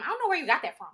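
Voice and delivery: loud, high exasperated scolding; family scolding. Retold or imitated. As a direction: scold her like a fed-up parent. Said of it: "that's what they used to tell me".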